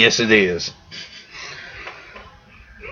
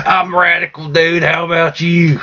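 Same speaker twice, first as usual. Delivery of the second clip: slow, laid-back stoner dude, pitched up; surfer dude voice; 5 semitones higher than usual. Acted. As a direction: drawl it like a surfer teen. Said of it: "high school student".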